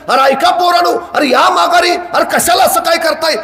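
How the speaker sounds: a hammed-up old woman crying out; old woman shouting. Old woman shouting after the boys climbing the hill, calling them back. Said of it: "म्हातारी कोतारे ओरडायला लागली".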